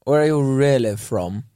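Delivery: lightly put-on posh English accent; a touch of posh probing. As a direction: ask it in a mildly mocking middle-class accent. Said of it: "in an accent going".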